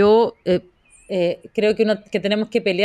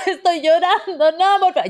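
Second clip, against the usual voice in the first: mock crying plea; 10 semitones higher than usual. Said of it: "O ponerse así como".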